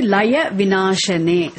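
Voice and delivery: slow, clear, syllable by syllable; careful teacher's model recitation; slow model reading. Shown as a demonstration. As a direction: say it slowly so the class can repeat. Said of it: "Say it now".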